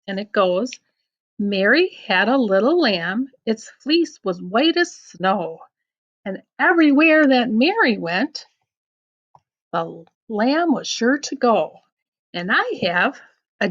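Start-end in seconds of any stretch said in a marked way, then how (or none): 1.4-11.8 lilting nursery rhyme recital; gentle rhyme reading; reading to children. Acted. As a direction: read it sing-song for a child.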